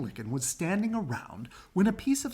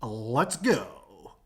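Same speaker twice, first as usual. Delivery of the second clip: quacking; 4 semitones lower, 4 dB louder than usual. Acted. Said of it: "quacked Ducky Lucky".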